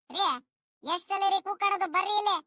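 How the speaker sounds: wife calling out in mild exasperation; impatient calling. Acted. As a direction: call the husband over, fed up with repeating it. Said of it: "ಅದ್ಯಾಕ್ ಹಿಂಗ್ ಬಡ್ಕಂತಿದ್ಯೋ". (ಬೇಸರದಿಂದ ಕೂಗಿ ಕರೆಯುವುದು)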